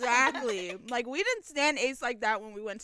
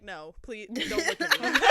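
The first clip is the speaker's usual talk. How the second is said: laughing shy plea; 3 dB louder than usual. Retold or imitated. Shy idol begging fans, laughing.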